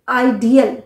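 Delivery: आइडियल in three parts, eye-dee-al; आइडियल with the a heard in the middle; आइडियल, not idol; ideal. Shown as a demonstration. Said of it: "अ है बीच में".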